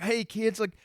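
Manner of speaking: high, slow mock politician; hammed-up impression luring kids; Bill Clinton. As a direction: tease with a put-on Southern politician's voice. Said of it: "It's just Bill Clinton".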